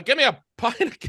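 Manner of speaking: halting stab at an Irish accent; attempted Irish accent. Shown as a demonstration. Trying Irish on request, faltering accent. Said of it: "give me an Irish accent".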